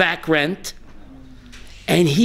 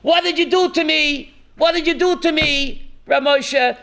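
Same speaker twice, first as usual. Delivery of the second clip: retold screaming; 6 semitones higher than usual.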